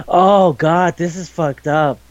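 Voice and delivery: slow, mock-horrified realization; understated dawning horror, slowly voiced. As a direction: act aghast, dragging the words out. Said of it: "that horrified moment where".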